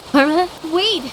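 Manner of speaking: high, loud call to stop her. Acted. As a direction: call after her as she leaves. Friend calls her back.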